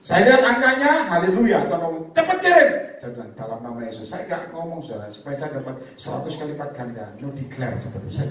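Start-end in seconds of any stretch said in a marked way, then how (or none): 2.1-2.7 much higher and louder, pressing; urgent command. Retold or imitated. Preacher voices God urging him to send, loud and high. 3.4-4.1 hushed prayer. Retold or imitated. Quiet prayer reply.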